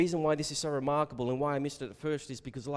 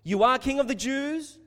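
"You are King of the Jews?" declared higher and louder, questioning lift at the end; Pilate's statement said with a questioning rise; statement asked as a question; 12 semitones higher, 8 dB louder than usual. Shown as a demonstration. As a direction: proclaim it, then let it rise. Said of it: "a statement asked as a question".

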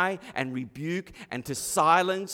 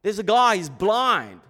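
ordinary delivery

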